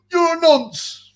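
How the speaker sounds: high, slow, hammed-up troll taunt; mock troll. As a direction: drag it out like a desperate troll.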